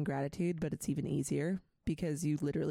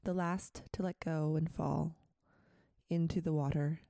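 poem reading. Acted. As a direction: read the poem gently, line by line. Reads a poem aloud.

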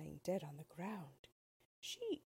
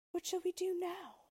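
sad; 12 semitones higher, 4 dB louder than usual. A narrator's reading. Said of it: "she asked her friend sadly".

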